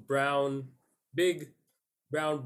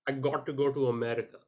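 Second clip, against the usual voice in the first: put-on Indian accent. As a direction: tell the dream like an Indian bro. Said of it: "In an Indian accent".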